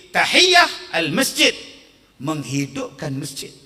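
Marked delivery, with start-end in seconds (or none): 0.1-1.5 shouting "Tahiyah" high and loud; preacher shouting the right word at the crowd; shouted correction. Shown as a demonstration. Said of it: "Bukannya tahi".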